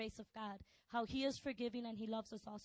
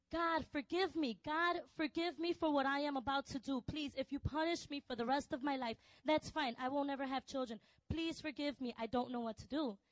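high, loud, desperate pleading cry; retold screaming plea; 4 semitones higher, 5 dB louder than usual. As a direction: scream for forgiveness, begging God.

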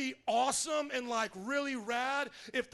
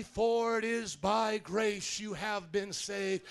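preached scripture; slower than usual. Real, not acted. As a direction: proclaim the passage phrase by phrase, swelling at the end.

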